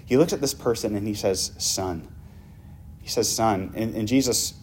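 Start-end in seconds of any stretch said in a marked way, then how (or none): 1.6-2.1 soft, gentle calling of a son; softer tender address to the paralyzed man. Acted. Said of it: "do you hear how tender". 3.3-3.7 tender. Acted. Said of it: "do you hear how tender".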